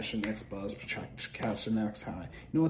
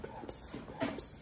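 unvoiced, softer whispered Pepsi; 4 dB quieter than usual. Real, not acted. Musing on the soda, a whispered Pepsi chant. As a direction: breathe the name out. Whispering the brand name repeatedly.

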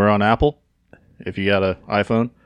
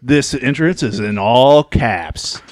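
Warhorse impression; much slower than usual. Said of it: "go like Warhorse and be like".

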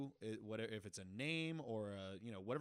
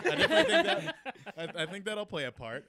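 overexcited audience voice; 8 semitones higher, 15 dB louder, faster than usual. Pretend. Playing the studio audience.

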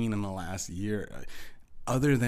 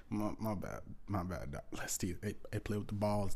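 softer, blissed-out mumbled apologies; relaxed; 6 dB quieter than usual. Retold or imitated. Gamer buddy distracted on the mic, relaxed. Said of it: "he was a lot more relaxed".

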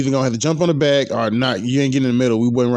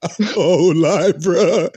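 laughing agreement; 3 semitones higher, much slower than usual. Real, not acted. Laughing at his own story.

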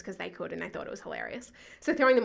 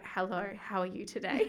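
forced monotone; 2 semitones lower, 5 dB quieter than usual. Retold or imitated. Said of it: "took every ounce of energy".

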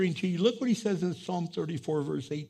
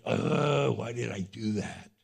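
low, quiet self-reproach; regretful groan; 8 semitones lower, 5 dB quieter, slower than usual. Acted. Acts out regret after anger.

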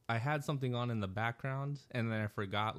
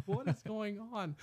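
annoyed moviegoers; 10 semitones higher, slower than usual. Retold or imitated. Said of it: "people are turning around".

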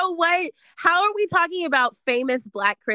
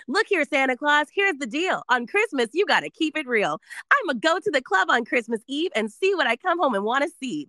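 upbeat, fast ad announcer; Kohl's commercial read; 4 semitones higher than usual. Shown as a demonstration. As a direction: sell it like a holiday TV ad. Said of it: "I'm giving you Kohl's commercial".

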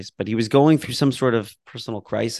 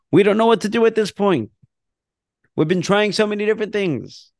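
fervent prayer reading; 7 semitones higher than usual. Acted. Teacher reading the prayer aloud to the class, raised and pleading. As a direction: pour out the prayer to God, lifted and earnest.

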